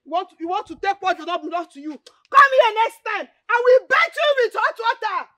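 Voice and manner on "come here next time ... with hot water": raised, forceful warning; angry threat. Acted. Scolding an intruder who wants the land, angry threat. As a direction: threaten them off your land.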